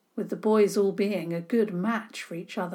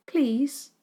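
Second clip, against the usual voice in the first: sweet pleading; 6 semitones higher, 4 dB louder than usual. A narrator's reading. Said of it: "with her very sweetest face".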